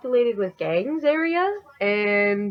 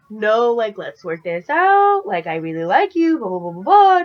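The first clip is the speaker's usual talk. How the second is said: pleading drunk imitation; 5 dB louder than usual. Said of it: "he goes from being like".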